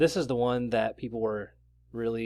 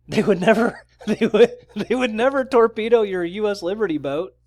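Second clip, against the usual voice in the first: mocking laughter; 6 semitones higher, 7 dB louder than usual.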